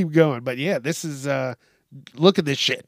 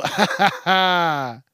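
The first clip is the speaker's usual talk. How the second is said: fake laugh; 3 semitones higher, slower than usual. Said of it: "Do you just go".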